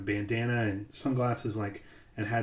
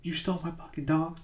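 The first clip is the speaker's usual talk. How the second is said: higher, indignant retold outburst; mock outraged realization; 7 semitones higher than usual. Trainer realizing his dogs were taken, mock outrage. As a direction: squeal it in half-acted disbelief. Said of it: "He goes".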